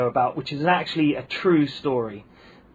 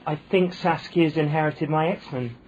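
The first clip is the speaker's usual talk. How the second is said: Essex sister-in-law; 2 semitones higher than usual. Retold or imitated. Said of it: "And she said".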